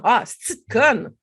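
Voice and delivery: a cutting put-down; harsh insult. Shown as a demonstration. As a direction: spit it at yourself. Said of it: "Tu vois la différence?".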